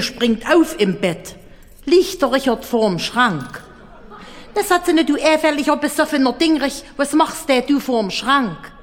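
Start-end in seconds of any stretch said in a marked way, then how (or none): 4.5-8.7 higher, raised scold; scolding wife. Acted. Lene scolds drunk Richard at the wardrobe, angry and higher. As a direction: tear into the drunk.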